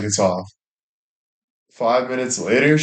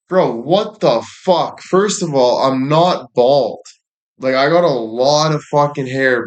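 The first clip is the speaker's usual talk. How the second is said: higher and slower, drawn out in disbelief; mock outrage; 4 semitones higher than usual. Real, not acted. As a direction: play up the offended bro. Reacting to an absurd message.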